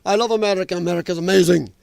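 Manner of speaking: loose attempt at an Austrian accent; Arnold Schwarzenegger. Schwarzenegger praising America on a talk show, rough Austrian accent. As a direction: lightly imitate an Austrian strongman's accent. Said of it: "I gotta get my Arnold voice going".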